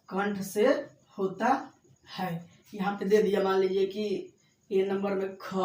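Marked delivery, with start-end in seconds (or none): 0.1-2.5 कंठ से होता है spoken slowly, word by word; slow dictation. Shown as a demonstration. Teacher dictating slowly to students copying notes. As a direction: dictate it slowly so they can write. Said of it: "क्या से होता है?".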